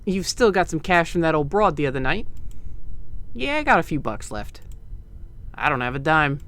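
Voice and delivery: put-on a light, loose East Coast gangster accent; vague East Coast accent. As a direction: play it like a Boardwalk Empire hood, only lightly. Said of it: "my vaguely East Coast accent".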